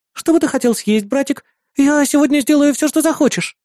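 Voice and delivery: put-on high, sweet girl's voice; bright, eager to please her brother; eager little sister. Sister offering to cook whatever her brother wants, eager.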